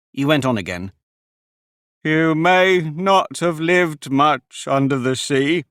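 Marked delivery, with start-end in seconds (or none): 2.0-5.6 tearful. A narrator's reading. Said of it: "with tears running down his cheeks".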